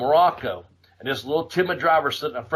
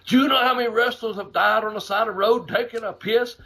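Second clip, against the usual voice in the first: hammed-up Neidhart blocking the door; mock Neidhart threat; 6 semitones higher than usual. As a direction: bark it high and angry.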